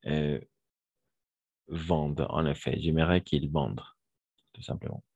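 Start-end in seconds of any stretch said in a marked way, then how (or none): 1.7-2.2 "vendent" as one syllable ending on d; silent -ent ending. Shown as a demonstration. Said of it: "E N T à la fin, on ne prononce jamais". 2.8-3.8 "vendent" closing on a sounded d, -ent silent; brisk model phrase, "vendent" without its -ent; silent -ent ending. Shown as a demonstration. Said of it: "E N T à la fin, on ne prononce jamais".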